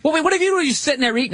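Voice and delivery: high indignant dog voice, voice jumps way up; voicing the dog. Voicing the dog's complaint to the man snapping in its face, high and put out. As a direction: play the annoyed dog, pitched high. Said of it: "The dog's like".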